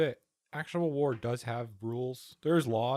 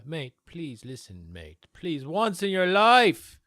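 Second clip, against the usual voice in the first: hammed-up British bloke pleading, slow and louder at the end; mock British accent; 3 semitones higher, 7 dB louder, slower than usual. Streamer mocking Piers in British accent, then loud plea. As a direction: put on a Cockney accent and beg. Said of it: "I dropped my accent".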